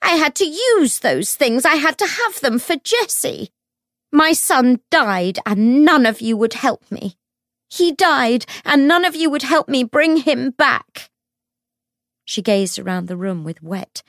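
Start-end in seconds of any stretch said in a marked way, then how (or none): 0.0-11.1 very high, loud grieving wail; broken child's wail. A narrator's reading. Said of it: "in a voice like a broken child's".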